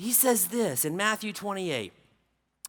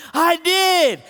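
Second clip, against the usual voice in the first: put-on excited girl; 9 semitones higher, 9 dB louder than usual. Daughter voiced in story.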